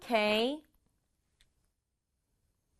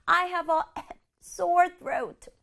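mock sore throat; 7 semitones higher, slower than usual. Shown as a demonstration. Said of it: "목 아픈 거 생각하면 그 느낌이".

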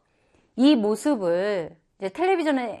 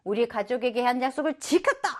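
bright, higher boasting cry; proud boast; 3 semitones higher than usual. Acted. Dad boasting to reporters after the finish, proud and high. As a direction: crow it out like a proud winner. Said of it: "막 이러면서, 예, 자랑을 합니다".

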